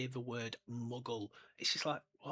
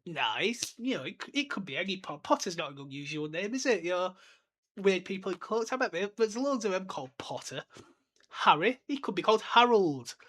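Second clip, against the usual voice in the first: rising, louder flustered denial, brushing it off; 4 semitones higher, 4 dB louder than usual. Retold or imitated. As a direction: talk yourself out of worry, getting louder. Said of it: "proper denial here".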